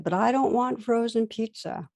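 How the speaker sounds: high whiny child protest, mildly played; a touch of a toddler refusing; resisting child. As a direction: whine like a stubborn toddler, lightly. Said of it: "my son instantly resisted".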